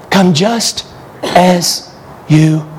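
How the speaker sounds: high, urgent pleading call; impassioned altar call. Real, not acted. Preacher urging listeners to come, high and urgent.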